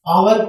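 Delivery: आवर begun straight on the vowel; silent H. Shown as a demonstration. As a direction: drop the H at the start of आवर. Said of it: "यहाँ एच silent है". (आवर में एच silent)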